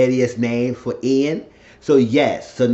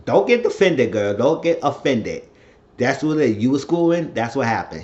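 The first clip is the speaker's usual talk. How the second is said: emphatic, raised scolding; acted telling-off; 3 semitones higher, 3 dB louder than usual. Man telling a woman she got schooled, emphatic scolding.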